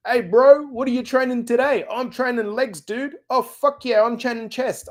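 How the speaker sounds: put-on Kiwi accent. Gym bros asking each other what they're training today, in a Kiwi accent. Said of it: "I did that in a Kiwi accent".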